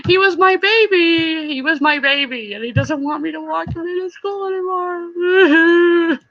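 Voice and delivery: a catch of crying in the voice; real sad. Real, not acted. Mom telling viewers her son outgrew her, near tears. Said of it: "I'm so sad about it".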